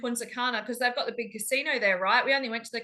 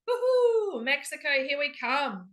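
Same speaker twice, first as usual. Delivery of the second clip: excited; 3 semitones higher than usual. Real, not acted. Cheering about the cruise trip.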